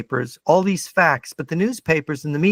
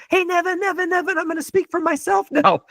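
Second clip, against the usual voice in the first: much higher, squeaky playful cartoon voice with a laugh; cartoon voice of the facts; 11 semitones higher than usual. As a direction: play the facts as an eager little cartoon figure calling the host. Facts personified come running, talking.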